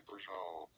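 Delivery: "Peugeot" said French-like, as "per-zho"; mispronounced. Shown as a demonstration. Showing how he says it, French-sounding mispronounced "Peugeot". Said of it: "It sounds like I'm trying to speak French".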